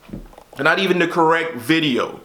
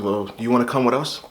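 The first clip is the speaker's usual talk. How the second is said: sweet tone; 4 semitones lower than usual. Retold or imitated. Officer at the bedroom door asking Marcus to come along, mildly sweet. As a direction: ask it kindly, like a polite invitation. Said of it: "he said it in the sweet tone".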